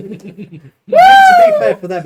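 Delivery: laughing. Real, not acted. Laughing at convict joke.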